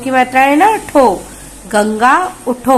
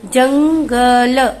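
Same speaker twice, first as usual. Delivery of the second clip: 'जंगल' slow, syllables apart, final vowel added; slow syllable reading; much slower than usual. Shown as a demonstration. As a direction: spell out जंगल slowly. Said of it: "देखिए".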